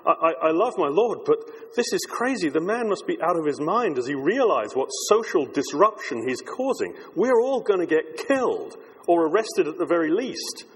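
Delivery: a lightly voiced worried family man, talking himself out of it; mild nervous inner voice of a follower getting cold feet; a hint of a frightened disciple musing to himself; anxious disciple. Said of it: "imagine one of them thinking".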